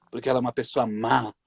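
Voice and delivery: possessed demon voice. Retold or imitated. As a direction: growl it out like a possessed spirit. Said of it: "sabe aquela voz do demônio". (voz grave de demônio possuído)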